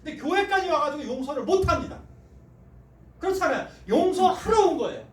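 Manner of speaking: loud, high impassioned sermon; full-force revival preaching; fiery preaching. Acted. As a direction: preach it hard to the pews.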